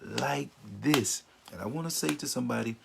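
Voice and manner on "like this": slow, drawn-out reproach; mildly angry, each word stretched; acted hurt accusation, taken slowly. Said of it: "really angry at them".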